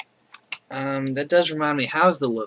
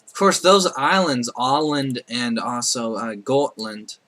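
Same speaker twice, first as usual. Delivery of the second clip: put-on Scottish accent; 3 dB louder than usual. Gamer naming Baltic islands in Scottish accent. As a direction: slip into a casual Scottish accent on the island names. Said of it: "I said that in a Scottish accent".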